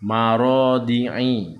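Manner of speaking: slow "Marodi'i" ending on a nasal i; nasal 'ain. Shown as a demonstration. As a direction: chant "Marodi'i" with the last i in the nose. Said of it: "suara di hidung itu".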